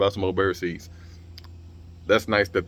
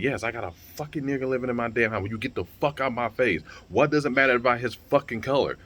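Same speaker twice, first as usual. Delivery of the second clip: exasperated rant, pitched up; mock yell without full volume; retold angry yelling; 5 semitones higher than usual. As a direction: imitate someone fed up and telling people off. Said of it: "she started yelling and, and screaming at people".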